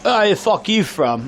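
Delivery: mimicked drunk demanding an answer; imitated drunk local. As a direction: play a forgetful drunk stranger. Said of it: "he was like".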